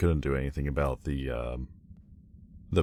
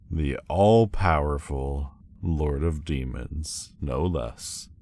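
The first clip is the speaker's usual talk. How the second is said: grandiose; slower than usual. Acted. Grandly declaring own title.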